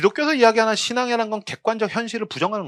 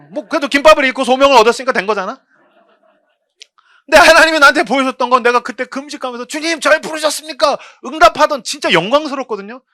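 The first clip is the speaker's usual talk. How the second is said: louder, higher pulpit voice; forceful preaching; 8 semitones higher, 7 dB louder than usual. Acted. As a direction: drive it home to the pews. (힘차게 외치는 설교)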